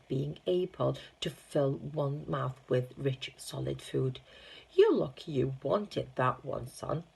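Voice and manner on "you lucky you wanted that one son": pleasant. Acted. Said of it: "the shopkeeper said pleasantly".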